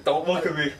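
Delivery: hammed-up grumpy pitcher growling don't look at me; mock Bumgarner snarl. Friend imitates Bumgarner sulking at the Reds, mock grumble. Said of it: "he'd be like".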